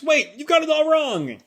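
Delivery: high, hurried panic; a son pleading not to be misunderstood; lightly voiced panic; mock panicked.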